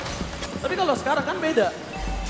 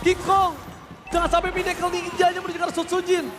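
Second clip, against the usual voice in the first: excited; 5 semitones higher than usual. Real, not acted. Caster warns during fight.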